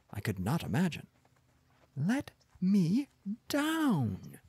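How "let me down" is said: high, drawn-out plea; wailing. A narrator's reading. Wife stranded on a pedestal, high wail. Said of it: "she wailed".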